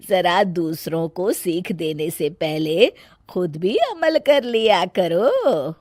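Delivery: slow, lightly voiced older woman; mother-in-law. Mother-in-law gently rebuking her daughter-in-law, slow voice. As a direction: calmly rebuke her, slowly.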